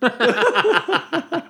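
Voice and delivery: whispered, slowing as she reads; mouthed reading. Retold or imitated. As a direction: mouth the words barely aloud. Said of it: "she's mouthing it".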